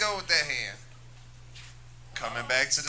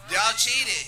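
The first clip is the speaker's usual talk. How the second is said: repeated accusation; 5 semitones higher, 4 dB louder than usual. Real, not acted. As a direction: say it again, firm and loud. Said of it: "should I just be brutally honest".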